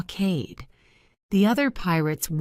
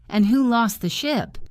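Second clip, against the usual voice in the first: angry shout; 5 semitones higher than usual. A narrator's reading. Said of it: "Silver shouted at him".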